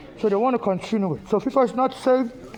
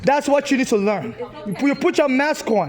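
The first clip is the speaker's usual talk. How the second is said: real anger; 2 semitones higher than usual. Real, not acted. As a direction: scold him for his rudeness. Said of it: "I'm angry".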